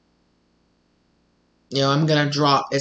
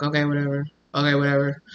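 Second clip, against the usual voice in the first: dismissive; 4 dB quieter, faster than usual. Retold or imitated. Voicing the partner who walks out.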